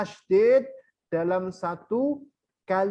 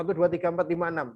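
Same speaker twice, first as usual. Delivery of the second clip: quick counting; 2 semitones lower, much faster than usual. Shown as a demonstration. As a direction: count the six beats briskly. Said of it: "Kalau enam, bacanya cepat".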